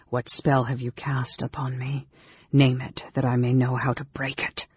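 restrained, measured interrogation; hushed demand. Acted. Mage demanding the spell's name, hushed.

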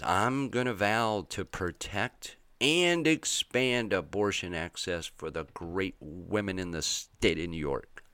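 lightly voiced politician making a grand promise; mock Andrew Cuomo voice. Commentator mocking Cuomo's vow in a puffed-up voice. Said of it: "I don't know if he sounded like that".

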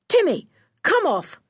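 high, sharp order to a dog; high, firm child's command. A narrator's reading. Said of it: "commanded George".

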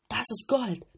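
loud greedy cry; shouting robbers. A narrator's reading. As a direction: call out at the sight of gold. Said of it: "riefen sie". (laut gierig rufend)

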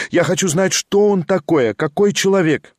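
lightly voiced young woman, wistful then eager; a hint of a lively young lady, lifted a little; young lady Liza. A narrator's reading. Liza insisting.

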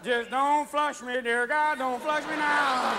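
slow, drawn-out hungover plea; pleading hungover. Retold or imitated. Hungover drinker at the porcelain altar, slow plea. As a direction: beg weakly over the toilet.

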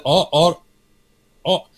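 tripping over the word au-, au- and laughing; real laugh cutting off au-; stumbling into a laugh. Real, not acted. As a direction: stammer au- au- until the laugh breaks through.

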